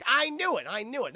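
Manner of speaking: loud, high burst of triumph; excited vindication. Real, not acted. Host to the chat on being right, real excitement. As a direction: exclaim it, thrilled to be right.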